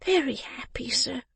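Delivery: put-on high, whispery child's voice; small, high, breath-filled voice; weak little boy. Sick boy answers his benefactor.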